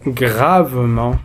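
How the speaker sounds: "Gravement" slowly, the final nasal "an" held; drawn-out nasal ending. Shown as a demonstration. Teacher showing how adverb endings sound, "Gravement" slow and drawn out. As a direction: stretch the end of "Gravement". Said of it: "on le prononce".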